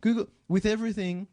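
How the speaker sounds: high, insistent push; emphatic advice. Real, not acted. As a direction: urge everyone to google.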